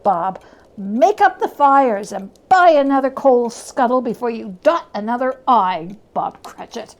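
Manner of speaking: put-on hearty, beaming old man; lightly voiced merry Scrooge; jolly reformed Scrooge. Scrooge cheering Bob on Christmas, hearty.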